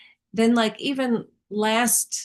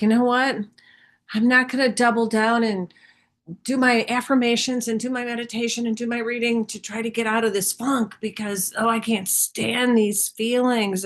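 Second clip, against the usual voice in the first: fed-up inner voice; 3 semitones higher than usual. Retold or imitated. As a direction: blurt it like you're sick of trying so hard. Quoting her own frustrated self.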